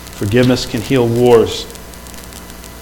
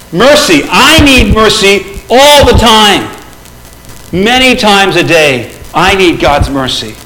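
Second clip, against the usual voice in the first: earnest plea; 5 semitones higher, 4 dB louder than usual. Retold or imitated. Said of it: "I'm like".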